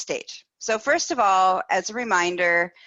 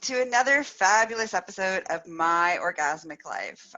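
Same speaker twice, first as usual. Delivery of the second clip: big bright show-host greeting; excited welcome; 4 semitones higher, 3 dB louder than usual. Real, not acted. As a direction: welcome everyone with a splash. Podcast host big opening.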